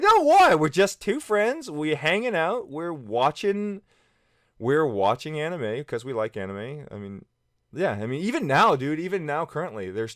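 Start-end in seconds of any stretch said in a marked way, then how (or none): 0.0-6.9 high, slow, mock-incredulous "No, why?"; hammed-up denial, pitched way up and slowed; indignant protest. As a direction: protest your innocence, far higher and drawn out. Retold protest to roommate Brad.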